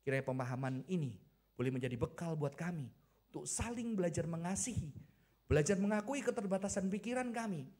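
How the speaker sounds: earnest congregational prayer; measured prayer, swelling midway, settling low at the end; closing prayer. Real, not acted.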